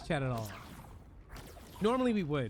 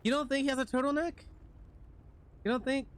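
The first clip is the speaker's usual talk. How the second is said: incredulous; 9 semitones higher, faster than usual. Real, not acted. Incredulous at friend's answer.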